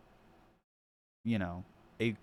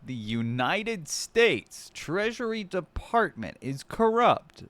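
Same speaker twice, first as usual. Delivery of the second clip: mock clip voice; 7 semitones higher, slower than usual. Streamer parrots the clip speaker to chat, higher and slow. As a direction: parody the clip speaker line by line.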